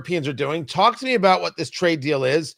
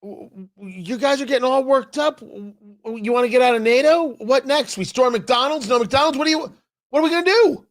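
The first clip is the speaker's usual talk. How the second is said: mocking Meloni impression; 7 semitones higher than usual. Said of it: "who has been saying".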